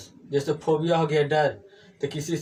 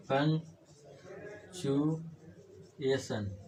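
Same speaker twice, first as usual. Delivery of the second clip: very slow and softer, long gaps between syllables; 7 dB quieter, much slower than usual. Shown as a demonstration. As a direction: break पंक्चुएशन into drawn-out pieces, as if writing it. Teacher breaks word up while writing.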